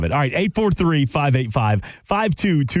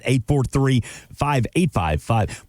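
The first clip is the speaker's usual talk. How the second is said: Southern twang; slower than usual. Real, not acted. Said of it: "Boy, my Southern twang".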